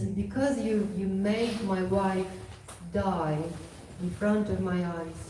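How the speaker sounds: measured, mildly angry pronouncement; retold anger, emphatic and deliberate; angry male parrot. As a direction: deliver a solemn reproach, leaning hard on key words. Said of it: "the male parrot got so angry".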